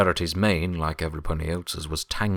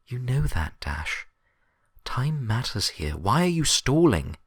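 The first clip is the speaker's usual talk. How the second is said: higher, louder stern Twilight voice building to anger; stern insistence; 7 semitones higher, 4 dB louder than usual. Acted. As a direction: drive the point home, growing impatient. Twilight presses Dash.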